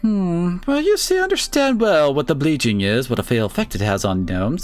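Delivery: character voice. Acted. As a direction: voice the gnome's friend sincerely. Reads a game character's lines.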